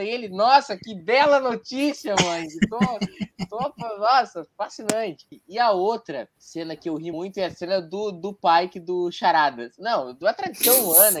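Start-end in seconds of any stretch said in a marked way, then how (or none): 0.3-5.2 mock sarcastic. Spock's dry reply to mother.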